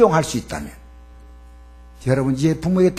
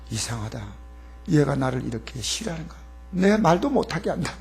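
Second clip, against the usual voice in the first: hurt muttering; 7 dB quieter than usual. Retold or imitated. Parent muttering hurt thoughts.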